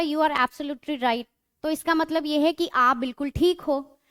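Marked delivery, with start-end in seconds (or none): 0.0-1.2 slow, carefully spaced English sentence; teacher reading an example sentence slowly. Shown as a demonstration. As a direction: read each word out slowly for the class. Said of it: "अगर आपको किसने बोला".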